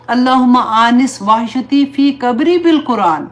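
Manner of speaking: slow, devout Arabic dua, each phrase drawn out; slow recited prayer. Acted. Teacher leading her listeners in a dua, slow and devout. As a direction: pray it slowly and earnestly, word by word.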